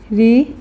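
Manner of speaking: रिप्रेजेंट as ri, pre, zent with long pauses; syllable by syllable. Shown as a demonstration. Teacher saying it while writing, रिप्रेजेंट in three separate pieces. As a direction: leave a wide gap after each syllable of रिप्रेजेंट. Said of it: "ये इस तरीके से".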